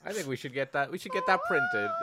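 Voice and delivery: mock excited squeal. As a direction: squeal it like a thrilled fan.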